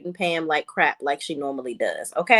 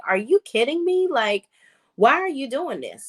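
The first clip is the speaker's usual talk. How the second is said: high, incredulous imitation of Andy; mock outrage as Andy; 6 semitones higher than usual. Vlogger voicing Andy's disbelief at Gary, higher. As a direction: pitch it up, indignant.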